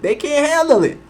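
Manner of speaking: pushed up high, "handle" hammered; rising emphatic repeat. Real, not acted. Louder, higher second repeat.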